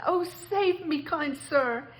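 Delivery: high, pleading, terrified toad; begging. Acted. Toad begs the kind driver to save him, high and pleading. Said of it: "he begged".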